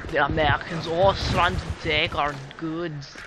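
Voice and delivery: indignant mock-German voice; bad German accent. Player protests that Americans take their goods, in a shaky-attempt German accent.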